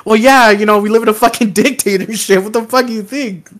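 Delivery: a light take on an unimpressed local; jaded Korean woman. Retold or imitated. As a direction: toss it off like it's obvious. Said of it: "all the South Korean women were like".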